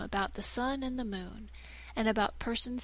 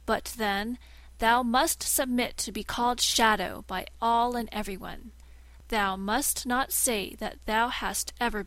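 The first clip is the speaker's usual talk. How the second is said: a risen shadow, grand and commanding; haughty Shadow. Acted. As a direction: lord it over your old master. Shadow lords it over man.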